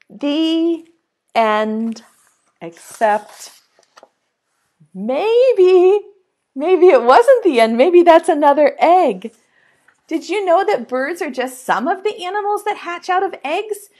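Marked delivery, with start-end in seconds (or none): 2.6-9.3 louder "maybe" with mystery; playful twist for children; teasing hint. Acted. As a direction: tease a new beginning. Teasing ending.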